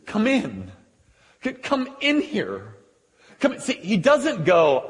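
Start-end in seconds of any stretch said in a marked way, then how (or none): 0.1-3.6 plea lifting in pitch; begging. Acted. Father begging his sulking son to join, rising plea. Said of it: "begged him".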